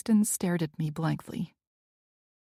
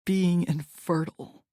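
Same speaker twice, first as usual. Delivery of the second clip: mocking emphasis. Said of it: "emphasized the last word with a mocking tone".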